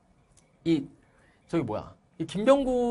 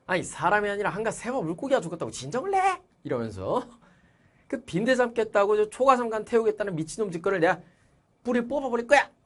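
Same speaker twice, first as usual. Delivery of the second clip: raised, higher angry outburst; angry workers; 5 semitones higher than usual. Acted. Factory workers berating the father, angry outburst. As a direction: rant at the father like furious factory men. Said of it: "이러면서 화를 막 내고 있어요".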